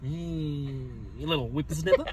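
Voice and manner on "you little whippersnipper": mild Aussie teasing; Australian accent. Pretend. Repeating a running joke, Australian accent. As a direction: tease with a put-on Aussie twang. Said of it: "What is it I always say that makes you laugh".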